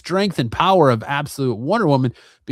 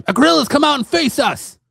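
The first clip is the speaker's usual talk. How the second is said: high, loud battle call; shouted challenge; 13 semitones higher, 5 dB louder than usual. Retold or imitated. Diana challenging the villain to face them, high shout. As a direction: dare him to come out, loud. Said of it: "shouts out his name".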